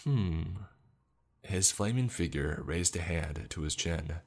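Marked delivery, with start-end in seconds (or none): 0.0-0.6 drawn-out thoughtful "hmm"; musing child's hmm; pondering hum. A narrator's reading. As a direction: hum as if weighing an answer. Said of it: "showing that he was pondering this hard".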